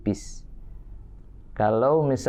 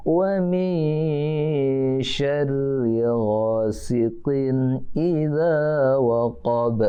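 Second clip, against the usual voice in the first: Quran recitation; 2 semitones higher, much slower than usual. Shown as a demonstration. Teacher chanting a verse for children to repeat, slow and drawn out. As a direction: chant each word slowly for the class to copy.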